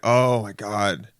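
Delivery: drawn-out awe; exaggerated restaurant praise; mock gushing. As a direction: stretch it out like an overdone rave. Diner raving to someone else.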